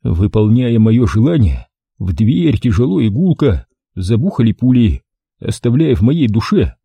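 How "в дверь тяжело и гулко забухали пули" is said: plain reading voice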